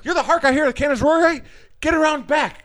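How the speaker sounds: mock amazement, then hustling him; quick, lightly acted starstruck urging; amazed urgency. Usher sends the actor round back, amazed and urgent.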